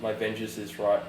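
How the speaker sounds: whispering. Acted. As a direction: murmur it into his ear. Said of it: "I'm gonna whisper into his ear".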